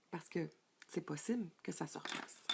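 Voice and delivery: chuchoté, doux et rassurant; murmure-le comme une confidence encourageante; soft whisper. Real, not acted. Encouraging the audience, near whisper. (murmure tendre pour encourager les participantes)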